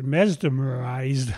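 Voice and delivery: mesmerized said slowly and carefully; deliberate slow self-correction. Real, not acted. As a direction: drag out mesmerized to get it right. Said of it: "I get it right".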